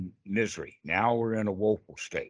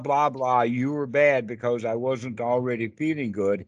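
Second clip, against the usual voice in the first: mock blaming; 3 dB louder than usual. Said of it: "we turn around to the past and say".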